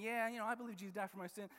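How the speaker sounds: fast, offhand and breezy; casual rattle-off. Retold or imitated. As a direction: toss it off quickly like a stock phrase. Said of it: "when we start just saying".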